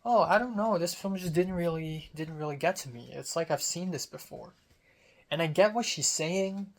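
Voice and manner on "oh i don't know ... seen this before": unfazed North. Retold or imitated. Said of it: "North was completely unfazed".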